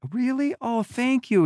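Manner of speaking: high, bright-eyed aw-shucks thanks; sweet surprised thanks. Retold or imitated. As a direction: play the sweet kid taken aback by a compliment. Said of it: "he said".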